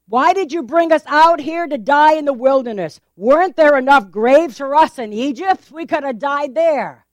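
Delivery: complaining. Acted. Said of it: "they complained".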